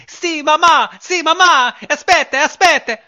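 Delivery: put-on squeaky high little boy calling to mom; piping high kid voice, slow at the end; high child voice. Boy in shorts answering his mother in a squeaky kid voice.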